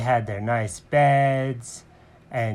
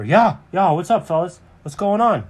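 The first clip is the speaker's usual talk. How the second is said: higher, lively cartoon greeting; bouncy pal checking in, pitched up; Alfred arriving; 6 semitones higher, 3 dB louder than usual. Friend runs over to the fellas, higher lively voice. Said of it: "And Alfred comes running over".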